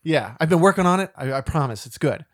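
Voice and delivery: hammy bad Boston accent; overacted Boston accent, proud of it. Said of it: "doing it in a horrible Boston accent".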